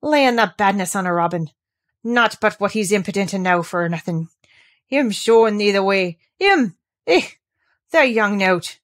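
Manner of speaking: put-on a scolding old gardener in broad Yorkshire; crusty old man telling off a girl; gruff old Yorkshireman. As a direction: grumble it like a cross old gardener.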